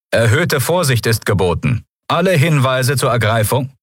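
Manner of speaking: ship announcement. A narrator's reading. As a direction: announce it like a warship's broadcast. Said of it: "körperlose Stimme".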